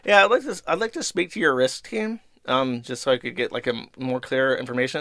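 overly sweet customer voice; fake nice. Retelling his call to the rep in a fake-nice tone. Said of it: "I was trying to be nice".

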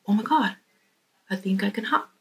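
hushed, disbelieving discovery, spoken softly; half to himself, barely daring to believe; quiet amazement. Acted. He pressed on it and goes.

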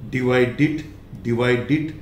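"डिवाइडेड" with a light final d; right way. Shown as a demonstration. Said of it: "not divided".

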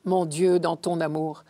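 measured, solemn scripture recitation; psalm reading. Acted. Reader proclaiming Psalm fifty to the faithful, solemn recitation. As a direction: recite it as a prayer, phrase by phrase.

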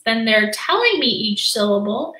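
ordinary talk

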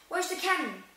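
put-on a dazed, dopey kid blurting it out; stupid Dudley. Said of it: "he said stupidly".

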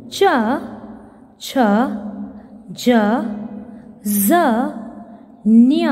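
each consonant said slowly and clearly, one by one with pauses; teacher reading out the alphabet for the class, slow and clear; reciting the consonants. Shown as a demonstration. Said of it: "teacher recites consonant list".

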